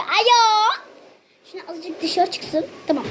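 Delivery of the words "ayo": excited squeal. Real, not acted. Squeal at lovely smell.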